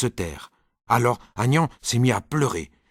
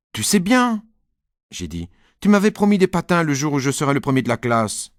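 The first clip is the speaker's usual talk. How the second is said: higher insistent reminder; pleading child; 4 semitones higher than usual. Acted. Nicolas reminds dad of the skates, higher and insistent. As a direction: hold him to his promise.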